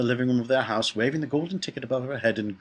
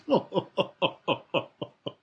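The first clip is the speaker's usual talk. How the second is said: a string of separate high hoots; punctuated, high-pitched "oh-oh-oh" chuckle; drawn-out run of little laughing pulses; mock staccato laughter; 8 semitones higher than usual. A narrator's reading. Comic reaction to the machine's mishap.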